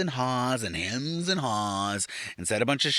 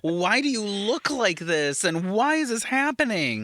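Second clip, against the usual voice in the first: bewildered; 6 semitones higher, slower than usual. Retold or imitated. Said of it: "I was like".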